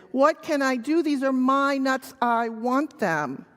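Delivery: lightly voiced monkey frustration; mildly frustrated monkey. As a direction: play a thwarted monkey for children. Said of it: "he is growing increasingly frustrated".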